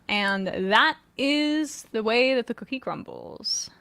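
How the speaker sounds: hoarse, strained, losing voice. Real, not acted. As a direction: voice going hoarse and tired. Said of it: "I'm losing my voice a little bit here".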